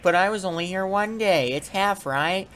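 high-pitched whiny guest impression; complaining customer. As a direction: plead high like a haggling hotel guest. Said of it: "I don't want people being like".

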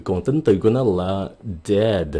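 normal talking voice

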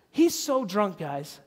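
ordinary talk

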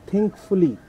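"think fully" with the weight on "fully", not on "think"; stress on "fully". Shown as a demonstration. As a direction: set "fully" apart as the key word after "think". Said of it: "the stress is on fully, not on think".

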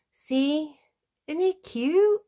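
high gushing delight; excited gush. Real, not acted. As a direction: show it off, thrilled. Showing off finished craft.

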